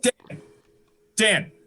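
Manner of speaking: high, eager call to a friend. Acted. Bursting to tell Dan a story, high excited call.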